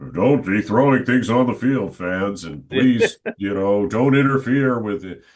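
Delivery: mock public plea to rowdy fans; pleading stadium announcer. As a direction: play the dutiful announcer admonishing fans. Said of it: "I had to play the role of".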